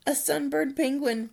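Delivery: high, loud punchline; punchline delivery. Acted. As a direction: land the punchline.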